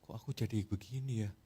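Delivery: mild mock weeping of Peter; Peter crying. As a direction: murmur it in a tearful regret. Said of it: "Petrus nangis".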